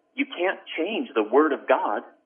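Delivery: shocked, incredulous voice full of shock. Recounting an argument about Bible translation, the speaker quotes the other man; retelling a shocked reply. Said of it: "with a shock in his voice".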